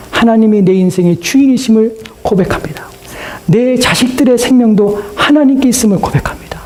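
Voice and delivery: high, declarative profession of faith; earnest confession. Retold or imitated. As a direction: proclaim it high, as a believer confessing. Acted confession of faith to God. (높은 어조로 신앙을 고백하듯)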